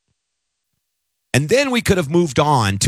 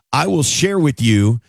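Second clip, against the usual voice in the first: mock hypnotist. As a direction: lull the audience like a stage hypnotist, playfully. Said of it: "I'm hypnotizing you right now".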